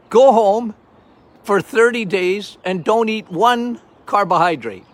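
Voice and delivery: loud commanding go home; forceful order. Retold or imitated. Doctor ordering a patient home, loud command. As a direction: bark it at the patient.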